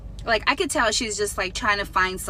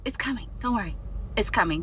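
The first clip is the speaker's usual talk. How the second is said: dismissive, softer brush-off; imitating a bored waitress brushing someone off; 4 dB quieter than usual. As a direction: wave the customer off with a quieter it's coming. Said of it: "Just like that".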